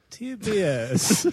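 name the network as a cod Italian; mock Italian accent. Co-host interrupting with cable networks, mock Italian accent. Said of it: "naming cable networks in an Italian accent".

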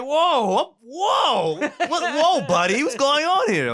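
high, laughing mock-soothing whoa; mock calm. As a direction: pretend to calm things down, laughing. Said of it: "Like, I'm mad calm now".

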